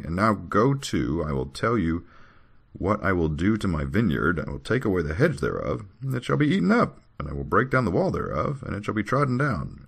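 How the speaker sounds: lilting, measured recitation; scripture reading. Acted. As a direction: declaim each clause in turn. Reads scripture aloud.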